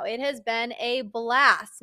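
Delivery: slow, dry sarcastic "It has been a blast", falling at the end. Real, not acted. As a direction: drag out "blast" as if it were anything but fun. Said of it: "if you can't hear the sarcasm in my voice".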